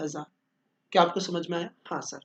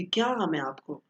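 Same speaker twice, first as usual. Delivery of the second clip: sweet pleading; 4 semitones higher than usual. Retold or imitated. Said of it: "इतने प्यार से बोलेगी".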